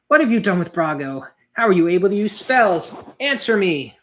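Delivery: mock-furious mother standing her ground; angry demand. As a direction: confront the villain and insist on an answer. Sherry confronts the villains.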